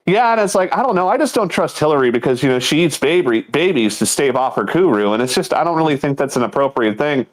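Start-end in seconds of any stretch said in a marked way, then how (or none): 0.0-5.1 deadpan. Retold or imitated.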